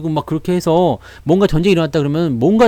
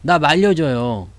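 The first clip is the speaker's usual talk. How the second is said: slow plea; 3 semitones lower, slower than usual. Retold or imitated. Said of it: "라는 거잖아".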